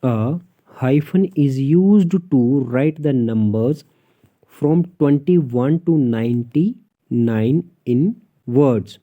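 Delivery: dictating a textbook rule; slow rule reading. Shown as a demonstration. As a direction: read the rule out slowly, word by word. Reads English rule aloud slowly. (धीरे-धीरे नियम पढ़कर सुनाना)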